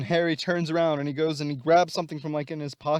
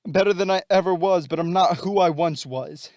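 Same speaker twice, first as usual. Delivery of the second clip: louder, emphatic retort; raised-voice comeback; Electro; 2 semitones higher, 5 dB louder than usual. Acted. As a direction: push back hard, in an acted quarrel. Voicing Electro's bitter retort to Norman.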